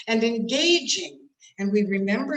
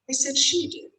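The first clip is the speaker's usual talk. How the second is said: pointed correction; 6 semitones higher than usual. Shown as a demonstration. Acts correction, blaming her.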